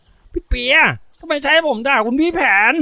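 put-on high, indignant kid demand; high-pitched boyish reproach; accusing little boy. A narrator's reading. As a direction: confront big sister in a boy's voice. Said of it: "หันขวับไปทางพี่สาวคนสวยยังเอาเรื่อง".

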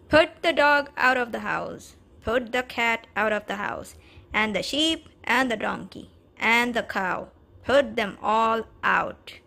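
loud firm orders; commanding. Acted. Wise man ordering the man, loud command. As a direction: bark out the orders.

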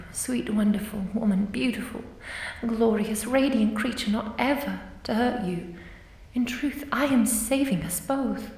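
lavish her with ecstatic compliments; rapturous praise. Acted. Ghost passionately praising her victim.

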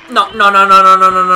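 loud, rapid string of protests; shouted panic; panicked refusal. Real, not acted. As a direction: blurt it out in rising alarm. Panics at game threat.

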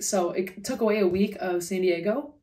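talking with a slight lisp. Real, not acted. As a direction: lisp around the retainers. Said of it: "sorry about my lisp right now".

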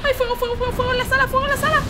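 high, loud cries of fire; frantic shouting; panicked yelling. Real, not acted. Panicked game moment.

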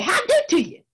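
high, loud, cheerful call; Brer Rabbit greeting. Acted. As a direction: sing out the greeting to the crowd. Brer Rabbit greeting tar baby.

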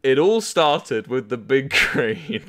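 slow, solemn storyteller opening; mock-epic first line; dramatic reading. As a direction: begin the tale like an epic. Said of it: "Ooh, dramatic reading".

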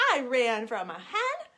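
lightly voiced cheeky taunt; gingerbread man. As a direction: tease the pig playfully. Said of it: "the gingerbread man said".

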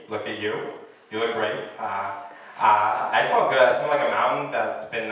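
smooth lazy charmer, barely changed; Vince Vaughn impression. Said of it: "How about Vince Vaughn".

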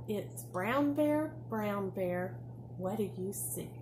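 sing-song picture book reading; reading to a toddler. Acted. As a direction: read it bright and bouncy for little kids. Teacher reads picture book to class.

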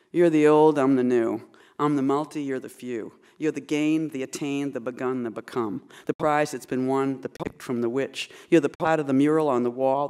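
measured poetry reading; poem read aloud to an audience. Acted. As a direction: read the lines as a poem, deliberately. Reads Helene Johnson's poem aloud.

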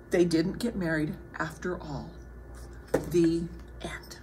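soft, low wrap-up; hushed closing line; quiet story ending. A narrator's reading. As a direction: bring the tale gently to a close.

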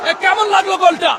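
calling over the crowd. Real, not acted. Reporter asks over crowd noise.

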